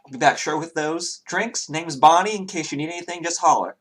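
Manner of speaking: high, quick friendly barmaid; chirpy tavern barmaid greeting. Acted. GM voices the barmaid.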